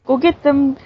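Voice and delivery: half-successful mock Canadian; attempted Canadian accent. Playing along with friend, attempted Canadian accent. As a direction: have a go at a Canadian "eh". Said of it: "I can't do the Canadian accent when I try".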